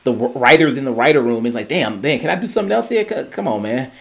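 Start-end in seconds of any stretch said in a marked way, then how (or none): 1.7-3.9 mock pleading complaint; lightly acted exasperated griping; frustrated Steve. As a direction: imitate a fed-up guy arguing his case. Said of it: "how much Steve is frustrated".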